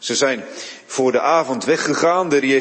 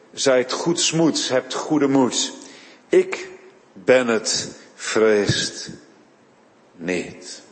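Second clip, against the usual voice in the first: reassuring; 2 semitones lower, much slower than usual. Acted. Jezus' words quoted in sermon.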